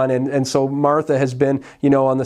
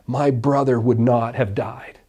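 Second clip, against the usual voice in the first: grieving reproach; slower than usual. Retold or imitated. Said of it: "Martha said to Jesus".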